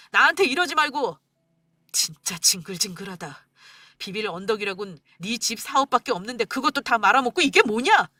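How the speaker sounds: disgusted angry outburst, cursing under breath then shouting; husband exploding at wife about her mother; exasperated husband. Acted. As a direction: vent total exasperation.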